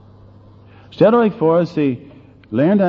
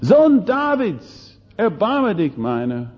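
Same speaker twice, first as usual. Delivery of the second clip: slow, high, drawn-out louder plea; loud beggar's cry; 8 semitones higher than usual. Acted. Blind beggar cries again louder, slow drawn-out plea. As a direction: stretch the cry out even louder. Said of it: "schrie er mit lauter Stimme".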